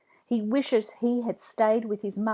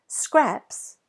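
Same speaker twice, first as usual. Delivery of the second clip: higher, louder call to the dog; 6 semitones higher, 5 dB louder than usual. A narrator's reading. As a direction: get the dog's attention. Jack calling dog.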